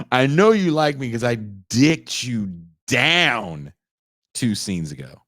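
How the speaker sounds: slow, hammed-up cocky lover; mock cocky lover. Comic hams up the smug lover's line to the wife, mock-cocky. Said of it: "I don't have the confidence".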